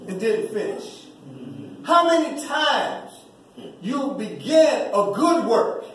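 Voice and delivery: pointed questions pressed on the congregation; preaching. Acted. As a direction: make each question sting a little.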